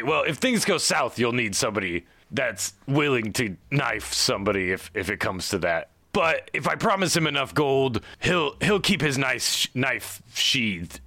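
lightly voiced gnome boss vouching for his crew; earnest Aldalar. Aldalar vouches for his boys to Horace, hesitant and reassuring.

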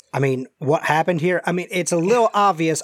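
lightly voiced Southern stranger; injured stranger. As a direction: answer as a faintly Southern, exasperated stranger.

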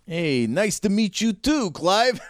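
high-pitched character greeting; Eddie, friendly. Acted. Eddie meeting Clive, high friendly character voice.

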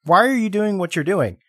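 mock pleading. Viewer pleading with the film.

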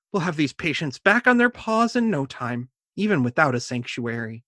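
reassuring. Acted. Voicing Doctor Fauna comforting.

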